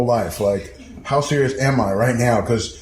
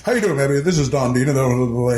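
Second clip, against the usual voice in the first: a hint of a radio host, laughing through it; mock the smooth caller while giggling; laughing radio voice imitation; faster than usual. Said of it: "it's a radio voice".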